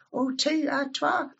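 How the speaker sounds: "twa" said the Scots way, broad a. Shown as a demonstration. Speaker demonstrating Ulster Scots words, broad Scots "twa". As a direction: switch "two" to the Scots "twa".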